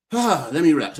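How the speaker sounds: sighing, then picking back up; sighing, firmer. Real, not acted. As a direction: shake it off with a sigh. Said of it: "I am out of breath".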